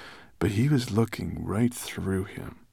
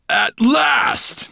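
high, loud growling outburst; furious dragon's growl; angry growl; 10 dB louder than usual. A narrator's reading. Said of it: "Nettlebrand growled at Twigleg".

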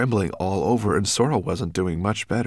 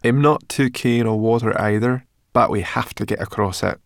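raised, louder character voice; grumbling Sorrel; 3 semitones higher, 5 dB louder than usual. A narrator's reading. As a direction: grumble it out in a lifted voice.

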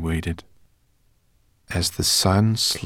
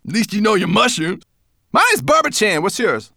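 high, loud amused taunt; grinning brownie; 7 dB louder than usual. A narrator's reading. Brownie teases Sorrel, high and amused. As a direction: grin through it.

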